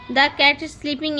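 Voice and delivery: slow, careful teacher reading; slow example reading. Shown as a demonstration. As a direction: spell the sentence out slowly for kids. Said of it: "teacher slowly reads example". (धीरे-धीरे उदाहरण पढ़ना)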